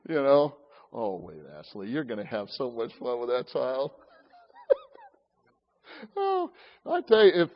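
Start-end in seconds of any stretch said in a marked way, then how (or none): 0.9-3.9 put-on mild kid tattling voice. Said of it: "they'll say something about their mother".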